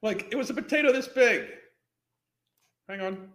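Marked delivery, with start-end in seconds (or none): 0.3-1.5 mocking brag quote. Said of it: "notice how she brags about that".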